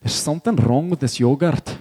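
Scottish movie character with a rolling lilt; Scottish accent. Retold or imitated. Preacher retelling a film scene to his church, in a Scottish accent. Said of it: "his Scottish accent".

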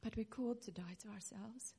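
hushed, whispered conviction; whispered solemn truth. Real, not acted. Preacher softly telling church to die to self, whispered. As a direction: drop to a whisper to land it.

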